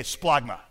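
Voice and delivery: "Splagma" modelled for others to repeat; lightly retched "Splagma"; retching pronunciation. Shown as a demonstration. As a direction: say "Splagma" as a demonstration, like a mild retch. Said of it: "I'll say it, you say it".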